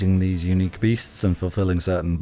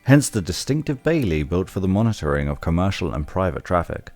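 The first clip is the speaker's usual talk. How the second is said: informative tour guide read. Pretend. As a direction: narrate it like a museum guide. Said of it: "my tour guide voice".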